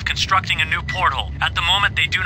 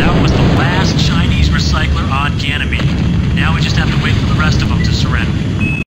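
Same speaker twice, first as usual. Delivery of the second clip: loud radio report; 7 dB louder than usual. Acted. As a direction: announce the victory loudly over the radio. Radio report after destroying recycler.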